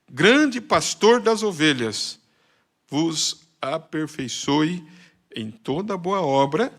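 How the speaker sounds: slow, solemn sermon reading voice; solemn scripture reading. Acted. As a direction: read it out like a blessing over the church. Pastor reads scripture benediction.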